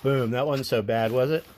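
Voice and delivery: talking around a phone in the mouth; phone held in teeth. Real, not acted. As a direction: speak with a phone clenched in the teeth. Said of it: "I'm gonna put the phone in my mouth".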